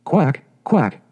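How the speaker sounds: voiced quacking duck call; a mother duck's quack. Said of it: "said the mother".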